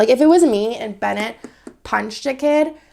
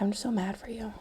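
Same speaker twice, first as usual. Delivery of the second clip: whispered sympathy; 11 dB quieter than usual. Retold or imitated. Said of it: "she's like".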